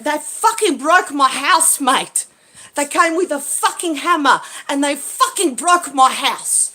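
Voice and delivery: fed-up grumbling; angry rant. Real, not acted. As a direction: vent about the break-in. Ranting about house being broken.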